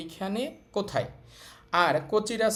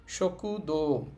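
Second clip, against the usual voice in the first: দো held long, its vowel stretched; drawn-out vowel; slower than usual. Shown as a demonstration. Teacher showing learners a silent u, দো drawn out. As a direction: stretch the o in দো slowly. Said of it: "ওইটাকে একটু টেনে বলতে হয়".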